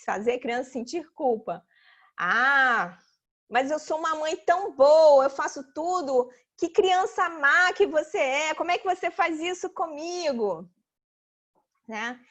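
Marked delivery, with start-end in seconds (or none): 2.2-10.7 lightly acted guilt-tripping mum; mildly wounded, to make the child feel guilty; hurt mother. Hurt mother makes child feel guilty, mild reproach. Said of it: "tem mãe ainda que fica magoada".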